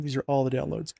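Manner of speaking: talking through a yawn; words stretched by a yawn. Real, not acted. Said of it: "Oh, man, I hate yawning so much".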